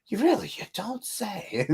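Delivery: sarcastic friend. Retold or imitated. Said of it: "And they're like".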